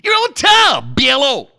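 high shout, "Tom" with a popped final B; radio greeting with B added to "Tom"; flamboyantly wrong consonants. Shown as a demonstration. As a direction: hit "Tom" high with a B on the end, then "Biello" for hello. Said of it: "And that's how you say it".

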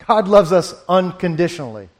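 corrects to "unconditionally" after a small laugh; amused self-correction on "unconditionally". Real, not acted. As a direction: fix the word with a chuckle, "unconditionally". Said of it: "Or, excuse me".

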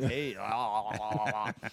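imitated slurpy "ah, ah, ah" lip-licking; mock a toothless woman licking her chops. Comic telling friends of a toothless leerer, mock chop-licking. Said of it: "licking her chops at him".

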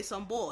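"bull" said as "bawl" in "some bull"; Philly slang "bull", like boy ending in an L; Philly pronunciation. Shown as a demonstration. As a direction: say "bull" with an aw vowel. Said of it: "we say some bull".

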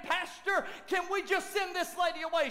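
a hint of an annoyed deacon; complaining deacons. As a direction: raise it, fed-up deacon pleading.

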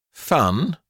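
put-on boy's puzzled, disapproving exclamation; pompous disbelief, mildly voiced; exclaimed. A narrator's reading. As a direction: query the word as if foreign. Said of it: "Ernest exclaimed".

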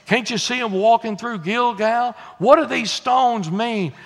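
lightly voiced curious kid; child asking Daddy. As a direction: put the question like a child to a father. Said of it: "The kids are gonna say".

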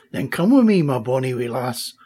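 put-on Scottish accent. Duncan invites Emma.

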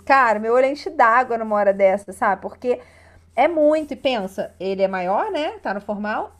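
usual speaking voice

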